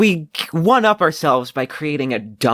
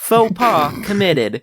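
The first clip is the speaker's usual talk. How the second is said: slow, flat machine announcement, a bit higher; robot voice; 5 semitones higher, slower than usual. Acted. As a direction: report it again like a computer. AI voice repeats error message.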